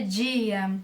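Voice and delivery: "dia" as Brazilian "djia"; strong D. Shown as a demonstration. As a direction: hit "dia" with a j-like d, drawn out. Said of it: "uma pronúncia mais forte".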